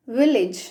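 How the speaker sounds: విలేజ్ with short i, "VIL-ij"; correct pronunciation. Shown as a demonstration. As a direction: end విలేజ్ on a weak "-ij". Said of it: "ఏమనాలి?".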